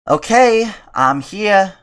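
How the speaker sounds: high put-on woman's voice; female voice. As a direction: squeak it out girly. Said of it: "That's a good female voice".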